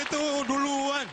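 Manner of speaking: loud, high, slow proclamation; punchline. Acted. Comedian landing the joke, loud and high. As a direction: announce it proudly.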